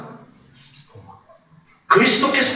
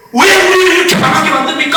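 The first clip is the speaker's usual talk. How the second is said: a shouted, higher-pitched complaint to God; a prophet railing at God, voice raised; protesting Habakkuk; 6 semitones higher, 4 dB louder than usual. Retold or imitated. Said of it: "라고 막 따졌더니".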